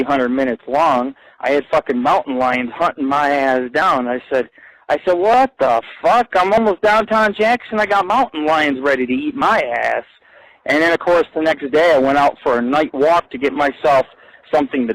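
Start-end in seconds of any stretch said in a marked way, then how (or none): 5.2-10.0 higher, slowed mock alarm; alarmed exclaim. Telling viewers about mountain lions chasing him, in mock alarm.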